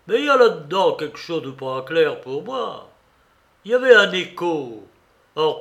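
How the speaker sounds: loud, insistent Silver argument; Silver reasoning aloud. Acted. Silver arguing the echo away, loud and insistent. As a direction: press the point home to wavering men.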